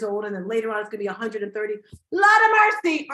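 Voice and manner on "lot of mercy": exclaiming. Real, not acted. Reacting to 130-year lifespan.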